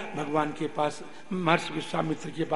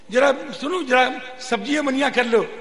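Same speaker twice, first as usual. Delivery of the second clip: high, lightly acted request; guru asking a chore; 7 semitones higher, 6 dB louder than usual. Guru asking his disciple to prepare vegetables, raised coaxing request. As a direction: coax the pupil with raised voice.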